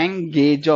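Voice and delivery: एंगेज broken into एं-गे-ज; sounded out. Shown as a demonstration. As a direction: stress each piece of एंगेज separately. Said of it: "word की sound पे जाना है". (एंगेज को तोड़कर, एं-गे-ज)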